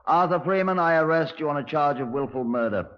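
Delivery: name called out high and firm; stern official pronouncement; formal arrest. Acted. Inspector arresting Freeman in his cell, stern formal declaration.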